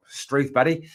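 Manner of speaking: put-on awful Australian accent. Host joking with a viewer, in a bad Australian accent. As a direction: throw out a hammy Aussie exclamation. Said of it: "awful Australian accent there".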